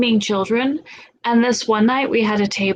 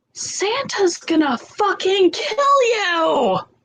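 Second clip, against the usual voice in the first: put-on very high, full-volume, all-out yell; 10 semitones higher than usual. Retelling how someone still in bed yelled while people slept: full-volume yell. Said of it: "yells at full volume".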